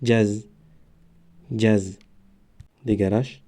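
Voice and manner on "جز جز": each sound read out slowly and separately; syllable demo. Shown as a demonstration. Teacher reading a syllable aloud for pupils. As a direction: spell out the syllable for the class. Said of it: "برای همین آواز زده می ایستد".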